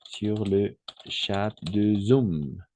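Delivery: slow, spelled-out "chat" with final t; sounded t in online "chat". Shown as a demonstration. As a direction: pronounce the t of "chat", unhurried. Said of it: "Parce qu'on doit distinguer". (« chat » avec le t prononcé, lentement)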